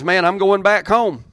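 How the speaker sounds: loud, high, hammed-up Naomi; Naomi voiced. Preacher voicing Naomi announcing her return home, loud and high. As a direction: belt it out as Naomi going home.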